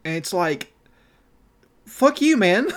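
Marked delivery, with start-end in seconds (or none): 1.9-2.7 loud, high indignant curse; angry outburst. Retold or imitated. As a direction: spit it out in disgust. Angry retort to professor's answer.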